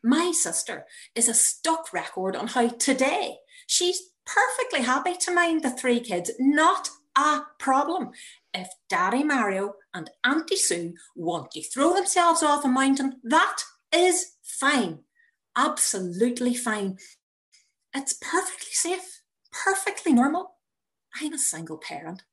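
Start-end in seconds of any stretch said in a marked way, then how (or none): 3.7-17.0 sister's overly insistent reassurance; hammed-up it's fine; mock reassurance. 17.9-20.5 high, breathy mock reassurance; nervous upbeat reassurance; tense reassurance.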